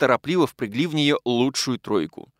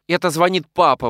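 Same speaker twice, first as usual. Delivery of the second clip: a sudden raised exclamation, louder; alarmed exclamation of a daughter; exclaiming; 5 semitones higher, 5 dB louder than usual. A narrator's reading. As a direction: cry out as the phone rings. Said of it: "воскликнула она".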